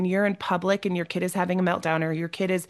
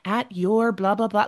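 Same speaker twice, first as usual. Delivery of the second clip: put-on higher, sweetly formal little-kid voice; mock polite toddler; 4 semitones higher than usual. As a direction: play the overly polite child asking Mom. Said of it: "she's not going".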